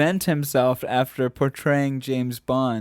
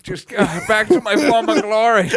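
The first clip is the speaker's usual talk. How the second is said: mock Connery; 8 semitones higher, 6 dB louder than usual. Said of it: "He's like".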